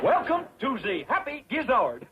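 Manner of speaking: hammed-up French maître d'; put-on French accent. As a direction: greet guests in a bad fake French accent. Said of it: "How do you like my accent?".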